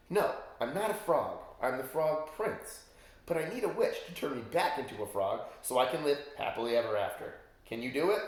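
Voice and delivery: frog prince voice. Acted. Prince pleads in one breath.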